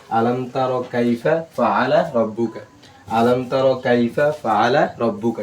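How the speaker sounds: slow, measured recitation with long vowels; Quran recitation. Shown as a demonstration. Teacher models the verse for students, slow recitation. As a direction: recite slowly, drawing out the long syllables.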